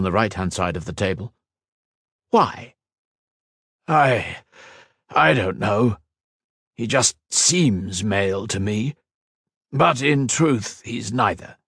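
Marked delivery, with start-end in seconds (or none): 2.3-11.6 higher, faltering reply; a scientist stammering before the council; hesitant young scientist. A narrator's reading. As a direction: stumble for the answer. Tamar hesitant answer.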